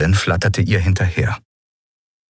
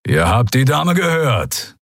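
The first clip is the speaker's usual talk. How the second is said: higher, slow snarl; snarling warning; 5 semitones higher, slower than usual. Acted. Keru backing up Endriel against the pirates, snarl. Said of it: "knurrte Keru".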